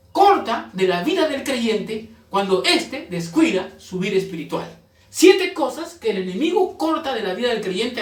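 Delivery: forceful preacher, stressing key words; preaching. Real, not acted. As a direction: drive each point home to the congregation.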